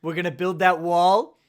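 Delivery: punchy rally-speech impression; Donald Trump. Co-host promising to build that wall, mock Trump impression. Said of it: "I can't do a Trump".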